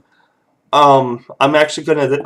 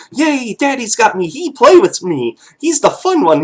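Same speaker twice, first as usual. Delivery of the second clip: put-on high, bouncy little-kid voice; happy baby thoughts; 9 semitones higher than usual. Baby thrilled that Dad picked him up, high gleeful kid voice. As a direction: squeal it like a delighted baby in Daddy's arms. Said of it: "like, thinking".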